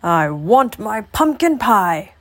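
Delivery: put-on slow old man's whine; old man whining. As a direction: plead for the pie like a cranky old man. Old man's refrain in story.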